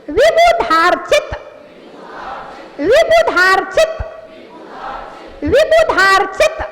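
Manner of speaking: "विभु धार चित" in three distinct chunks; teacher's model, "विभु", "धार", "चित" clearly separated; careful chunked pronunciation. Shown as a demonstration. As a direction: drill "विभु धार चित" evenly, every syllable articulated. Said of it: "एक एक अक्षर का उच्चारण कीजिए".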